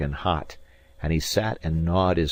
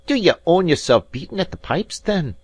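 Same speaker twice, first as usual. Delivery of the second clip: higher, louder mocking challenge; sneering Scots rival, raised; taunting Robin; 11 semitones higher, 5 dB louder than usual. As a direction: goad him toward the sword.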